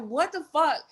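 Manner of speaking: imitating mad brother. Brother in the car freaking out, mock angry and high. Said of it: "he was so mad".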